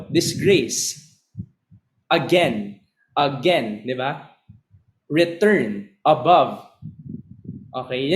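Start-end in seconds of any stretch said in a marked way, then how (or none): 0.1-6.6 each word stressed on the second syllable; da-DUM example words; iamb examples. Shown as a demonstration. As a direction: rise onto the end of "Again", "Return", "Above". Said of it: "bigyan ko kayo ng example".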